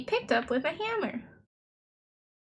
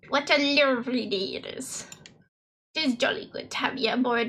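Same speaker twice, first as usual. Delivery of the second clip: put-on jolly seafarer voice; jovial skipper; faster than usual. Skipper welcoming a returning passenger aboard, jovial seafarer role. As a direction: voice act a hearty old boatman with chuckles. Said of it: "Honey voice acting one oh one".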